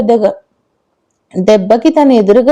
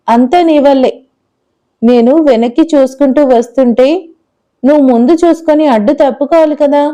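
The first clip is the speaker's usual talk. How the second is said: lightly voiced little girl. Narrator voices little girl Nivi.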